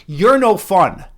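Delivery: loud, drawn-out mock drunken complaint; imitating a drunk spoilsport-hater, loud and dragging; drunk woman. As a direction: whine it slowly like someone hammered. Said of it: "She was just fucking hammered".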